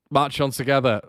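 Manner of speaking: high, rallying fan chant; cringy cheer. Retold or imitated. Fan shouting a club motto to the manager. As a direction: call it out like a fan rallying him. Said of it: "and I went".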